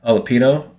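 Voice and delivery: jalapeno with a plain "no" ending; Americanized "jalapeno", no Spanish ñ; anglicized jalapeno. Shown as a demonstration. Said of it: "every time I say".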